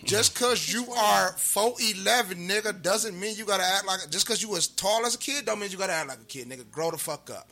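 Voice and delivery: heated rant. Real, not acted. Ranting to Mayweather during minute rants, loud scolding.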